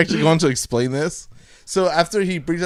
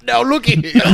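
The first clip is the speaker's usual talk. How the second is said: put-on southern accent; 9 semitones higher, 4 dB louder than usual.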